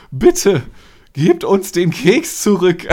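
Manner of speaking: shaky, earnest plea, slow; trembling plea. Retold or imitated. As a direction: plead with a trembling voice. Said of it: "so richtig ernst mit zitternder Stimme".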